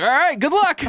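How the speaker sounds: high, bright hammed-up send-off; mock chirpy Cheryl. Mocking Cheryl letting her go, high chirpy. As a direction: wave her off in a cartoon high voice. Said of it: "Cheryl's like".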